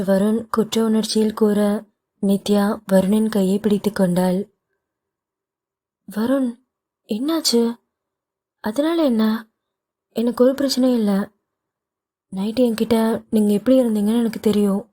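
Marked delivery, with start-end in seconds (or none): 6.1-14.8 wife soothing husband. Acted. Wife voiced higher.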